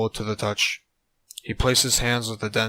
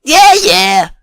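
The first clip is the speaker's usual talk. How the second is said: stammering; 15 dB louder than usual. A narrator's reading. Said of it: "Joey stammered".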